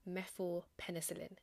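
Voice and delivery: phenozymethylpenicillin sounded out syllable by syllable; every syllable of phenozymethylpenicillin spelled out by voice; careful pronunciation. Shown as a demonstration. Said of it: "let me see if I can pronounce this".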